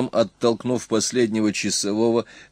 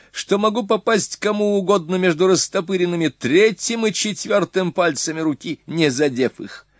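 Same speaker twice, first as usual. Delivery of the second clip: high, eager retelling of a boast; boastful young warrior; 7 semitones higher than usual. Acted. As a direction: brag about the shot. Son tells his story.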